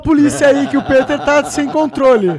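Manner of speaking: mock alarm call. Joking call to police over cursing.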